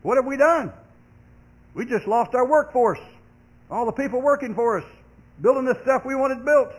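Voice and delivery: a hint of frantic Egyptian overseers; panicked Egyptians. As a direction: cry out in dismay as the Egyptians. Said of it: "The Egyptians began to think".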